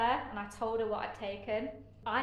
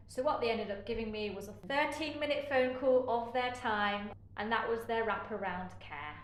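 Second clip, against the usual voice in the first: pointedly sarcastic, stressing the absurdity; real sarcasm, a little raised at first; 4 dB louder than usual. Real, not acted. Patient scorning the crisis follow-up she was given, sarcastic. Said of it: "I'm being very sarcastic".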